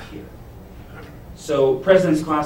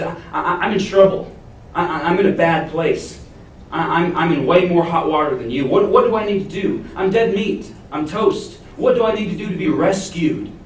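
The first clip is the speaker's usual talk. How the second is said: panicked jailer; 4 semitones higher, 4 dB louder than usual. Acted.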